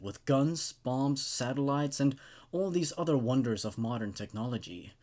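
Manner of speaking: calm, even reading of a creepy tale; story narration. A narrator's reading. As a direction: tell it like a campfire story, steady and measured. Reads the creepypasta aloud.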